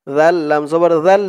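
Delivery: "জাল" with a very soft dh, tongue tip at the upper teeth; soft dhal. Shown as a demonstration. Teacher demonstrates the letter, soft dh in "জাল". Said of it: "জালের উচ্চারণটা একদম নরম হবে".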